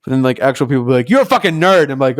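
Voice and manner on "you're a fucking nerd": louder, higher mock jeer; imitated bully jeer. Bullies turning on someone, imitated jeer. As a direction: throw it out like a bully. Bullies' insult voiced in story.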